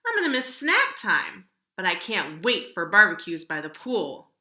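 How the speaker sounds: put-on chirpy child looking ahead; eager kid. Jack's line, child voice.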